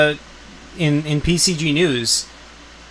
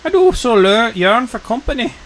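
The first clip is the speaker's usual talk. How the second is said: put-on high, playful copy of an old lady; imitating old woman voice; 7 semitones higher than usual. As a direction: echo the old hag up high. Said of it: "His voices are awesome".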